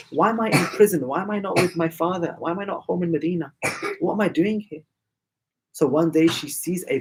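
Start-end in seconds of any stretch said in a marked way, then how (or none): 0.1-4.8 higher-pitched, lightly acted questioning; a child's plaintive questions, lightly voiced; pleading child. Imprisoned girl asks why she's not with her father, lightly acted pleading.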